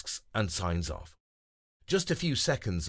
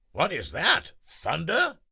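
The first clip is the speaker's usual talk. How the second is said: higher, louder alarmed question; startled deer; 8 semitones higher, 5 dB louder than usual. Acted. Denver hearing a loud bang, startled. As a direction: jump at the bang.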